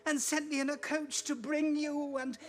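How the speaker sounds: a small sister coaxing her brother home; soft, hopeful child's voice; little Fan. Acted.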